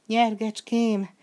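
a slow, high, loud pleading whimper. Acted. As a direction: whimper the saddle's name in panic. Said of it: "nyöszörgött a fiú".

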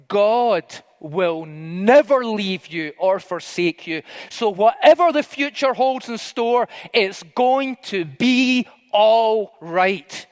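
slow, weighty promise in a mentor's voice; lightly voiced spiritual father, drawing out the words; imitated mentor's reassurance. Mentor voiced, reassuring the young man.

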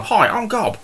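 high, silly goblin voice. Acted. Goblin giving players his improvised name, stupid high voice. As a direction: daft little creature introducing himself. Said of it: "His stupid voice".

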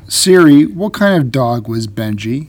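slow, clear command to Siri; talking to voice assistant. Real, not acted. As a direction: spell it out for the phone. Asking phone assistant aloud.

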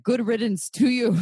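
good riddance with a laugh; laughing dismissal. Retold or imitated. Brushing off the angry listener, laughing dismissal. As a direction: toss it off laughing. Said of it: "Another part of me is like".

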